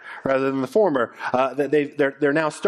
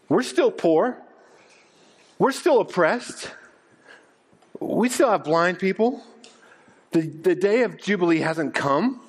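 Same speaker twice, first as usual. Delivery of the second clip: incredulous crowd; 3 semitones higher than usual. Retold or imitated. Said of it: "crowd objecting in sermon".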